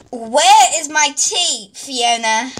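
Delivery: slow, half-hearted call for tea; low-effort queen demand. Acted. Queen calling her maid for tea, underplayed. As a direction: ask for the tea without much push. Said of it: "add in, like, a little more effort".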